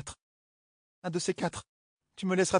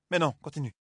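absently. Acted. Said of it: "assez distraitement".

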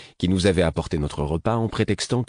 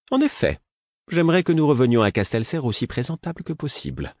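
airy aristocratic lilt, pitched up; high, refined lord voice; 6 semitones higher than usual. A narrator's reading. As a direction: play the fussy lord. (voix de seigneur raffiné, aiguë)

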